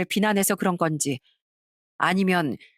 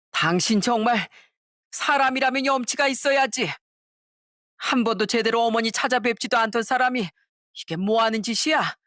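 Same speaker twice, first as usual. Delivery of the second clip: 아내를 나무라는 시아버지; 5 semitones higher than usual. Acted.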